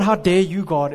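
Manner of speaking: mild mock outrage at God; indignant challenge. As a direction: demand it like an offended complainer. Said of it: "It's not".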